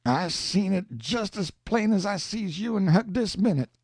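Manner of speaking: pleading Jim. Acted. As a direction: beg him to stop tempting fate. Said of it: "kind of pleading and distressed".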